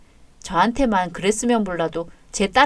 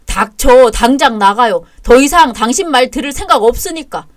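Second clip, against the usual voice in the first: cold fury; 5 dB louder than usual. Acted. Husband throwing his mother out.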